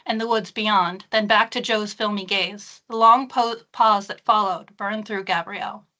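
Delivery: measured, hushed thriller reading; story narration. Acted. Author reading her thriller scene to a live audience, hushed narration.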